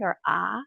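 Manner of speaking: ah, the short a in apple; short a sound. Shown as a demonstration. Teacher modeling the short vowel, demonstrating clearly. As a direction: isolate the sound ah cleanly. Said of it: "A can make the short vowel sound".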